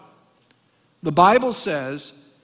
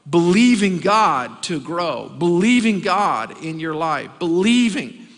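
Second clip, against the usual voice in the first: preaching emphasis; 4 dB louder, slower than usual. Real, not acted. Preacher building to a peak.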